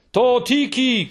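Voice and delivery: high excited shout of a name; breathless high call to a friend. A narrator's reading. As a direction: call her name loud and urgent. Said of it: "krzyczał".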